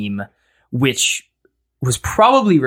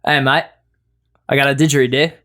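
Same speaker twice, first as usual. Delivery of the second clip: put-on Australian accent; 3 semitones higher, 4 dB louder, faster than usual. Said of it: "I'd be Australian, kinda like".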